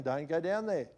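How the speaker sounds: solemn voice of God, understated; God's warning. Retold or imitated. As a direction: give a weighty command. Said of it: "it was God saying".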